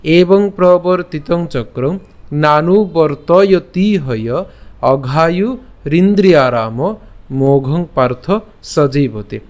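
slow, measured Sanskrit verse recitation; deliberate shloka reading, word by word; pronunciation recital. Shown as a demonstration. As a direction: draw out the long syllables for learners. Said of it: "প্রথম থেকে উচ্চারণটা করি".

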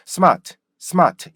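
smart said without the springy rhythm, r dropped; no-rhythm pronunciation. Shown as a demonstration. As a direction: say smart as plain smaht, no R. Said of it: "이런 리듬이 없고". (리듬 없이 R 빠진 smart)

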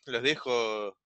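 normal talking voice

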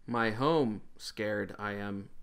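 stiff, slow robot speech. Acted. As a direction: talk like a halting robot. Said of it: "he sounds like a robot".

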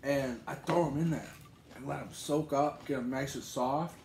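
chewing while talking; eating from a bowl; mouth full. Real, not acted. Seen 0: Right man eats from bowl, fingers at mouth; speaker uncertain.

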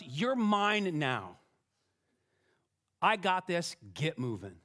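slow and deliberate, like a parent laying down the law; slow, firm claim. Retold or imitated. God telling his people to quit whining, slow and firm. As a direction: take your time, lean on every word. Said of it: "he says to us".

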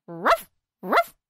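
barking like a dog. A narrator's reading. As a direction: woof it like a pup. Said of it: "acting exactly like a dog".

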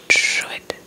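ordinary delivery

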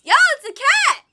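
high, loud burst of surprise; loud, high-pitched discovery; excited reveal. Real, not acted. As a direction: exclaim it with sudden delight. Reveal of the cat.

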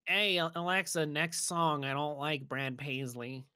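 a light put-on character voice. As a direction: slip into a goofy character voice. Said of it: "why Saucy came like this".

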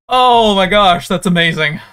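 amazed. Real, not acted. Awed after fight.

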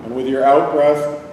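calm, unhurried meditation guide; guided meditation. Real, not acted. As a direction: lead them inward with long pauses. Leads a body-scan meditation.

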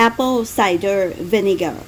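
slow, affected English accent. Shown as a demonstration. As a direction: draw out the English words, a little pretentiously. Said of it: "กระแดะนิดนึง เวลา เวลาพูดแบบ". (สำเนียงอังกฤษแบบกระแดะนิดๆ)

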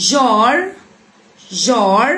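"Jar" with a long, heavy back 'ah'; emphatic A before R. Shown as a demonstration. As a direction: model "Jar" drawn out with a full round vowel. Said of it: "انطقه مفخم".

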